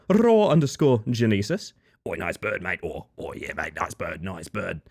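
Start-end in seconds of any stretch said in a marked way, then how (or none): 2.1-2.8 low, soft Australian bloke voice; put-on low Aussie mate voice; rarely heard voice. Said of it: "That's a voice that doesn't come out often". 2.8-4.8 low, soft Australian bloke voice; put-on low Aussie mate voice; rarely heard voice. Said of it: "That's a voice that doesn't come out often".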